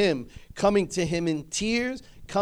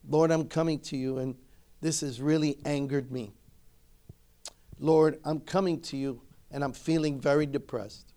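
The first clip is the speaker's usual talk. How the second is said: humble prayer. Shown as a demonstration. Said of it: "say to yourself".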